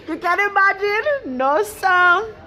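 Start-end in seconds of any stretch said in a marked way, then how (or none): 0.0-1.4 laughing. Real, not acted. Repeated, laughing harder.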